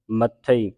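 ਮੱਥੇ with a doubled th; ਮੱਥੇ said tight on the double th; tightened consonant. Shown as a demonstration. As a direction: press the th in ਮੱਥੇ before releasing. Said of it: "ਅਧਿਕ ਲਾ ਕੇ ਕੱਸ ਕੇ".

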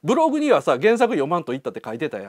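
casual Kansai-dialect challenge. Shown as a demonstration. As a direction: put it to him in Kansai speech. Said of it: "関西弁でいこうかなと". (関西弁でツッコむように)

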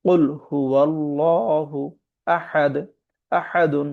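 হুয়াল্লাহু with a full, heavy lam, slowly drawn; heavy lam recitation. Shown as a demonstration. Teacher showing the heavy lam, slow recitation. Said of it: "মুখ ভর্তি করে পড়ব".

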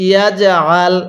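"ইয়াজ আল" with pressure in the throat on "আল"; throat-pressed ayn. Shown as a demonstration. Teacher demonstrates ayn, "ইয়াজ আল" pressed in throat. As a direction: squeeze the throat to start "আল" in "ইয়াজ আল". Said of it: "গলার মধ্যে একটু চাপ দিয়ে পড়বেন".

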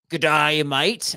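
a light attempt at an Australian accent. Obliging friends who ask for a party trick, Australian accent. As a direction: put on a bit of Aussie for the greeting. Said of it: "do an Australian accent".

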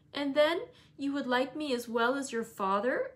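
lifted, brighter-toned eagerness; mildly cheered-up character voice. A narrator's reading. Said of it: "more cheerfully".

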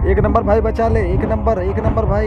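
high, loud frantic pleading; raging gamer. Real, not acted. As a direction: yell desperately for rescue. Begging teammate to save him. (घबराकर ज़ोर से बचाने की गुहार)

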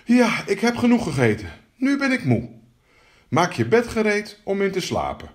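high-pitched frog voice; high, demanding little frog. Acted. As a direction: announce it in a high, self-satisfied frog voice. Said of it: "zei de kikker".

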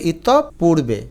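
ইতপূর্বে slowly as "itop... purbe"; careful pronunciation. Shown as a demonstration. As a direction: split ইতপূর্বে after the p. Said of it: "সঠিক উচ্চারণ ইতপূর্বে". (ইতপূর্বে, ধীরে ভেঙে)

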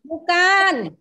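a sharp firm no. Retold or imitated. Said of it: "Thế cô nói là". (dứt khoát nói không)

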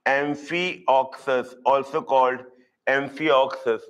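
AMPHIOXUS slow, syllable group by syllable group; slow breakdown. Shown as a demonstration. Teacher giving students the other name, slowly broken down. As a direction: spell out "Amphioxus" by ear, in slow separate parts.

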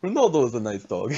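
put-on Dominican accent, playful pleading; light Dominican-accented mock reproach. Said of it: "I don't know why I'm doing this accent".

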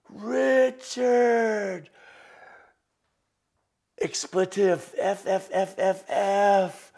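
overwhelmed backstage shout, very high and loud; Teller. Retold or imitated. Teller backstage calling out to the magician, overwhelmed shouting. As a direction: holler it in stunned amazement, stretching the name. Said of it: "That's exactly how he said it".

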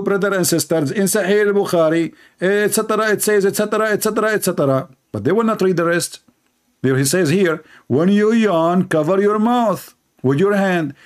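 mock preacher. Mocking the apologists' claims.

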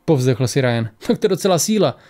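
measured audiobook reading with lightly voiced dialogue; story narration. A narrator's reading. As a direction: read the tale aloud, pausing between phrases. Reads the story aloud. (vyprávění příběhu)

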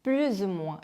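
careful "plus ou moins", sounded plu-zou-moins; liaison demo. Shown as a demonstration. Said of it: "요것도 이제 연음을 해주고요".

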